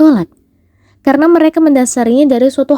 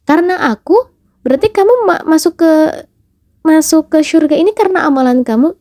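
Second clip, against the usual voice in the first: servant insisting; 3 semitones higher, faster than usual. Acted. Servant defends himself to God.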